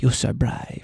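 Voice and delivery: hushed, breathy, soft whisper up close. Retelling words whispered into a son's ear: imitating whispering. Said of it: "I'm whispering in his ear".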